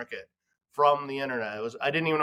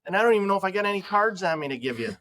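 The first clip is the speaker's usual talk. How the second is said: incredulous; 6 semitones higher than usual. Retold or imitated. Exasperated reply while bleeding.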